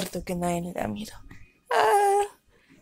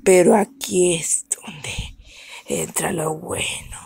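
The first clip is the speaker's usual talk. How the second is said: whispered announcer. Acted. Host whispers the contest to the audience. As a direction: whisper it like a secret show.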